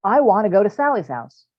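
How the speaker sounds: high, loud whine; child pleading with parent, high and loud; whiny kid. Retold or imitated. Kid whining in scenario.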